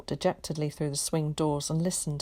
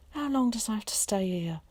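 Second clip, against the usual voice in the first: weak hoarse croak; 5 semitones higher than usual. A narrator's reading. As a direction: croak it out, worn out. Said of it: "he croaked".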